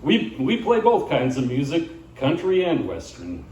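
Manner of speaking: lightly voiced country singer in a selfie video; a hint of folksy bandleader introducing himself; Arlo McCready. Singer introducing his band to viewers, lightly put-on folksy patter. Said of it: "He says".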